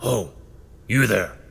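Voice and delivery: a hint of a deep, gruff prisoner; lightly voiced brute calling out. A narrator's reading. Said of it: "you hear a deep, gruff voice".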